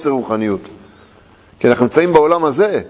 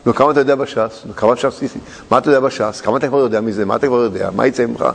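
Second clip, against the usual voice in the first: belittling questioning; 6 semitones lower than usual. Acted. Acts out belittling questions about learning.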